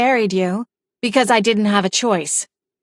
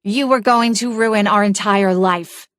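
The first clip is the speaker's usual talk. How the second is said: rising, accusing rant, pitch climbing higher; bitter accusation; 4 semitones higher than usual. Acted. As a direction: pour out years of grievances at him.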